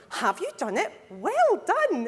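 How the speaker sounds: high, loud posh phone voice; posh telephone voice. Retold or imitated. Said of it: "very posh telephone voice".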